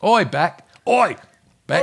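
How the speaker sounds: high, loud mock-Australian hail; badly faked Australian call; bad Australian accent. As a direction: shout "oi" in a hammed-up Aussie accent. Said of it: "in an Australian accent".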